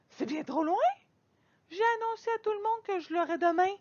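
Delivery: high, fast, whiny indignation; a girl pleading her case in a rush; indignant protest. Acted. Girl protesting to her father, high and fast.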